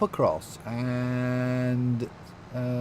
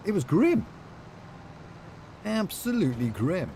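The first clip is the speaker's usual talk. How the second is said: put-on comedy Australian accent; 7 semitones higher than usual. Streamer moans to Ali about rain, comedy Australian accent. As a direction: ham up a cheesy Australian accent on grim. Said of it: "You would be beaten for that accent".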